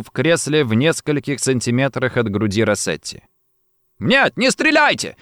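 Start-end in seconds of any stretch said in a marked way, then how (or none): 4.0-5.2 very high pleading cry; panicked cry. A narrator's reading. Cesare jumps from the chair, crying out. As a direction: beg for your life, pitch leaping up. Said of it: "закричал Чезаре".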